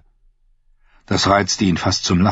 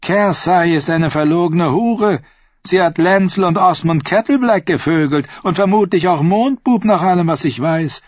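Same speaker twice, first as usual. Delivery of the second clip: vicious hiss; 11 semitones higher than usual. Acted. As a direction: spit the insults out cruelly. Tyrions höhere Stimme. (bösartig gefaucht, hoch und laut)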